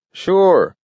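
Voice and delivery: put-on feisty old-timer; old man voice. A narrator's reading.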